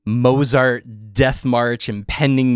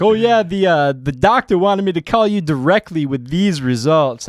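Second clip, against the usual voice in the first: higher, louder Jamaican nurse impression; mock Jamaican accent; 6 semitones higher, 4 dB louder than usual. Nurse phoning with results, mock Jamaican accent. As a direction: lay on the Jamaican accent, stressing these. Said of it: "super inappropriate Jamaican accent".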